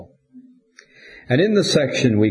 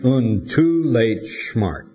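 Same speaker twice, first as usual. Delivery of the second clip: put-on slow, heavy German accent; strong German accent; much slower than usual. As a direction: read the plaque in a thick German accent. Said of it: "strong German accent".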